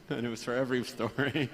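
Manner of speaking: softly laughing through the words. Real, not acted. Speaker recalls his reading partner's favourite story, laughing softly. Amused at friend's repeated favourite line.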